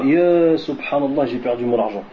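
lightly acted grumble about the trial; mock lament. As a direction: whine it like someone bemoaning their loss. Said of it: "Tu te dis pas".

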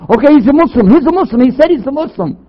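mimicking the brothers' rushed conversion announcement; mock eager announcing. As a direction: rush to declare him a Muslim, overexcited. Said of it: "They walk up and say".

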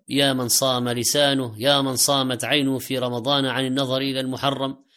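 normal talking voice

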